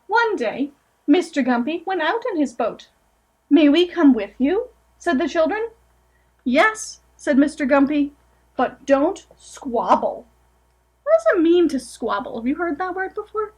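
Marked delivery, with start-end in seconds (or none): 0.1-10.3 gentle storybook reading aloud; picture-book narration, lightly sing-song; reading to children. Acted. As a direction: read it to a room of small kids.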